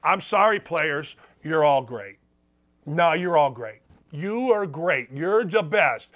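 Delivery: mock apology. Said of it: "What are you supposed to say?".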